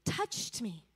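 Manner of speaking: slow, softened, a touch of tears; lightly voiced broken prisoner, slow and hushed; mild retold weeping. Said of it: "he starts weeping".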